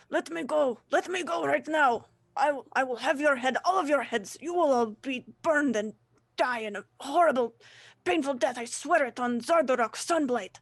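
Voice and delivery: captured dwarf yelling threats at the party, furious. Acted. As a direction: roar threats at your captors. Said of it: "he starts yelling at you".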